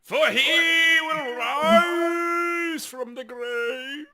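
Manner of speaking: high, slow mock sermon; preacher voice. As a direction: proclaim it like a street preacher. Mock preacher about Easter.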